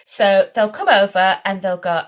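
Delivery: ordinary delivery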